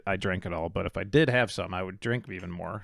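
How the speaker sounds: muffled, talking into a cup. Real, not acted. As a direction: speak into an empty cup. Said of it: "That's, that's me talking into my cup".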